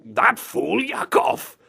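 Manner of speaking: slow, exaggerated villain imitation; mock villain growing indignant; big burly villain. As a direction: draw it out like a burly bad guy. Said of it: "the big burly guy says".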